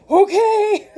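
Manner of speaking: laughing okay. Real, not acted. Laughing agreement to Spirit.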